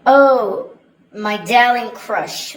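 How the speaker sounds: laughing through a mock-sweet "Oh, my darling crush"; mock adoring boy, laughing. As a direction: imitate a smitten teenage boy with a laugh. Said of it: "One young boy... said".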